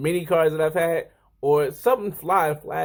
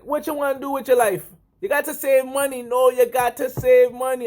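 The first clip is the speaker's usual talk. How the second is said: high, insistent mock Grenadian accent; botched Grenadian accent; 8 semitones higher, 4 dB louder than usual. Coworker urging him to save, high mock Grenadian accent. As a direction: lecture in a bad Caribbean accent. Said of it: "I'm gonna mess up your accent totally right here".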